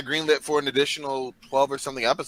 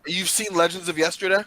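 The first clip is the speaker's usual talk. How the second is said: sarcastic; 2 semitones higher than usual. Pretend. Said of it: "I'm being sarcastic".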